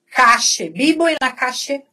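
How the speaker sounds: "Calle" and "calle" with an Argentine sh sound. Shown as a demonstration. Teacher showing the Argentine way to say the sentence, sh sound. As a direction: Rioplatense sh in "calle". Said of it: "Na Argentina seria calle".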